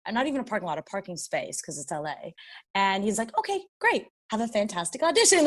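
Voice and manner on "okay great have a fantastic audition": mock-reassuring, pitched up at the start; lightly acted soothing cheer; calming. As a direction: placate someone who is flustered. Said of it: "trying to calm me down".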